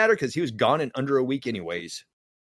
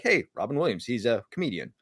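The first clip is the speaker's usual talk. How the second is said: a shrug of a line, dropping softer to the end; offhand; 3 semitones lower, 5 dB quieter than usual. Retold or imitated. People shrugging off a comedian, offhand and soft. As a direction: say it like it's nothing special. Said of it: "It's like".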